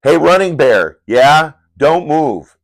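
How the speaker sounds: tense hissed-up alarm call; urgent call. Acted. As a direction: call out a sharp warning. Warning line in comic.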